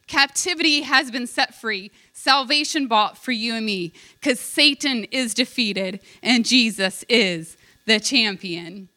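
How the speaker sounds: slow, measured build to the final title; imitating a singer's grand announcement, without the boom; booming proclamation. Preacher reciting the song's climax, proclaiming. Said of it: "he does it with a booming voice".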